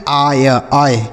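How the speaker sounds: आय, long 'aa' sliding into 'y'; I read as AAY. Shown as a demonstration. Teacher drilling the sound for students, आय as a glide. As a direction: say आय as an 'aa-y' glide, twice. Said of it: "आय के रूप में होगा".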